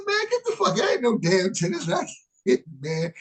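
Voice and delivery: high, lightly voiced friend scoffing; a hint of a mocking buddy. Friend scoffing at the racquetball racket, lightly voiced high. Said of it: "He said".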